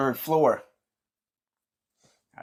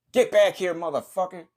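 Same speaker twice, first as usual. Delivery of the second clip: yelling after someone; 7 semitones higher than usual. Acted.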